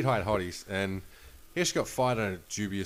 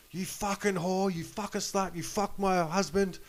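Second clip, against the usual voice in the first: furious yelling; 10 semitones higher than usual. Retold or imitated. Wife confronting her husband's mistress in the casino, furious high yell. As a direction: scream it at the woman who slept with your husband. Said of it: "this lady's yelling at her going".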